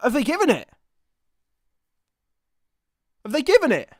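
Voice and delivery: nervous, slow and strained; tense waiting. Real, not acted. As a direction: hold your breath over the offside call. Waiting on the VAR offside check.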